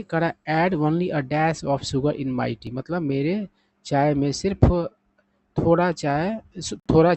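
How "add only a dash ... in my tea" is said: very slow, word by word English; slow example sentence. Shown as a demonstration. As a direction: read it out slowly for learners. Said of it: "sentence में इसका use देख लीजिए".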